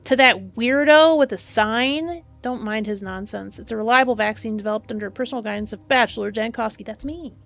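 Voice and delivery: brisk doctor voicing a crowd; lightly voiced busy medic; a hint of an officious doctor; voiced game character. Reads NPC dialogue aloud.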